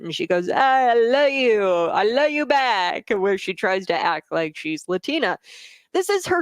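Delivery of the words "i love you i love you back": drawn-out, higher Latino accent imitation; mock Latino accent. Host mimicking Harris trying to act Latina, mock Latino accent. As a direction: put on an exaggerated Latino accent, stretching the words slowly. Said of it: "uh, this Latino accent".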